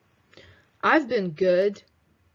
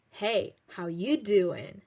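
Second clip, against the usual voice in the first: Joey-style slow flirty greeting; Joey's line; slower than usual. Retold or imitated. Teacher quoting Joey's famous line, lightly imitated. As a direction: drawl it like Joey from Friends. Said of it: "You all can remember Joey from Friends".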